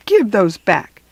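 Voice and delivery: a barked order from big sister. Acted. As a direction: bark the demand back at him. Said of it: "Judy barked".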